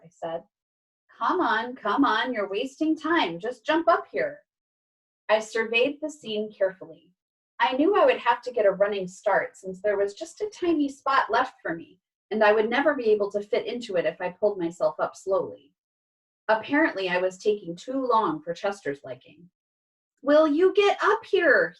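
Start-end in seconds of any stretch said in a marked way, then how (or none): 1.1-4.4 pitched-up, mildly impatient urging. Acted. Chester urging Harold into the chair, impatient. Impatient cat hurrying the dog. 20.2-21.8 loud, high, slow demand; exasperated hiss. A narrator's reading. Cat to dawdling dog, exasperated hiss. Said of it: "he hissed".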